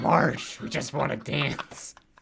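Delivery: raspy, gravelly smoker voice. Joining a voices bit with a co-host, in a Patty and Selma voice. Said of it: "You sound like Patty and Selma".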